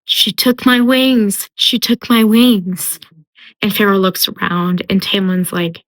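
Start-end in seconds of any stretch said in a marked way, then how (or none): 0.0-3.0 slow, mildly anguished retold cry; crying out in pain. Wounded fairy crying out in pain, mildly acted. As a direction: lament it slowly, higher, with understated anguish. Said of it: "he's crying out".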